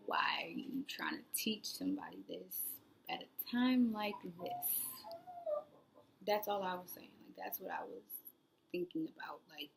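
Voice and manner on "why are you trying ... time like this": hushed, half-whispered inner thought; a private annoyed aside, under the breath. Retold or imitated. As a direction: mutter it to yourself, exasperated. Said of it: "in my head, I'm just like".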